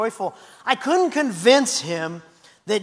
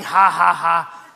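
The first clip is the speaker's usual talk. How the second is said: mock laugh; 4 semitones lower, 5 dB louder, slower than usual. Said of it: "always laughing".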